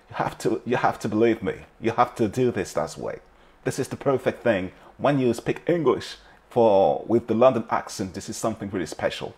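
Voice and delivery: light London accent impression, slowed on the key line; imitating a London accent. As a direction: channel a South London rapper's accent, half-playful. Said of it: "qui s'exprimait dans son accent très".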